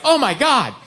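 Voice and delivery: high-pitched alarmed wife; mock panic. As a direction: overdo the hypochondriac alarm. Wife panics over new symptom.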